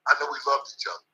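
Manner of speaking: real quiet afterthought; soft repeat. Real, not acted.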